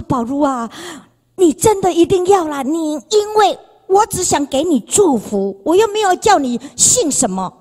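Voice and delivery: lightly voiced insistent friend; Mary insisting.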